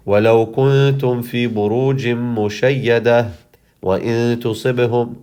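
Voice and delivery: fast run of the verse to the stopping mark; fast recitation. Shown as a demonstration. Teacher demonstrates reading fast up to the allowed stop. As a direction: rattle it off to the stop sign. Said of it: "I could say".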